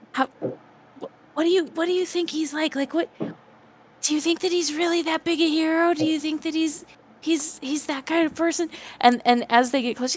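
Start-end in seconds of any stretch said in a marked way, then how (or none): 0.1-8.6 hushed whisper, higher pitch. Voicing curious townsfolk who gossip about a hero: whispering townsfolk. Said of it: "you can hear them whispering".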